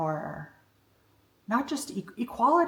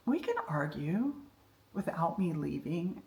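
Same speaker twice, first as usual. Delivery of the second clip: reassuring husband; 2 semitones lower, 6 dB quieter than usual. Retold or imitated. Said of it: "his shoulders just relaxed".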